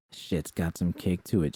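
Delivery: mocking repeat. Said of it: "she says".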